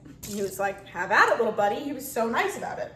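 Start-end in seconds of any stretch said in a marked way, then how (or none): 0.9-1.8 louder, hearty go-ahead; a hint of a jovial trucker; friendly trucker. Truck driver cheerfully letting the toddler pet his truck.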